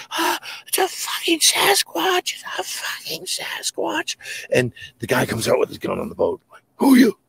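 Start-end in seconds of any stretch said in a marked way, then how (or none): 0.1-4.2 very high, drawn-out squeal of terror; hammed-up panic, stretched out slowly; mock panicked scream. Camper tumbles downhill from the creature, squealing in mock panic. Acting out man fleeing downhill. 6.8-7.2 loud, high challenge; retold startled shout. Man on boat challenges the screaming camper, shouting.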